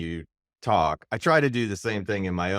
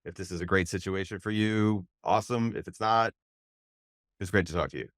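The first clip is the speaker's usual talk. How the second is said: calm confidence. Retold or imitated. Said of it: "I call it calm confidence".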